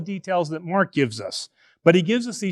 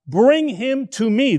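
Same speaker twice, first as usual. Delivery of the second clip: command; 4 semitones higher than usual. Retold or imitated. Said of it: "This is a command form".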